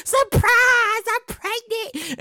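high, incredulous, mock-outraged fan; shocked fan. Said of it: "They be like".

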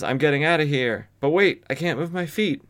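lightly voiced frightened man, rising; mild panic. Pete frozen in place by the Spectre, mock panic. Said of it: "And Pete then says".

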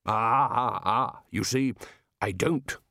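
put-on smug, smiling old don; a touch of triumph in his voice; triumphant smile. A narrator's reading. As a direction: savour the punchline. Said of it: "with a triumphant smile".

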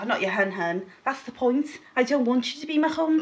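a hint of mopey Eeyore, rising toward the end; lightly voiced Eeyore, pitch climbing on the last line; Eeyore accent. Friend quotes Eeyore refusing to be called hun, mild mock Eeyore voice. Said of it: "That's a very good accent".

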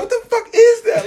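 high, slow disbelieving laugh; baffled. Retold or imitated. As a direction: squeak it out in disbelief. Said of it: "I just be like".

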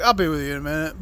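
low, quick mimicry of a waiter; curt waiter. Waiter brushing off two waiting customers, curt. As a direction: toss it off low and dismissive. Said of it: "He just came out and was like".

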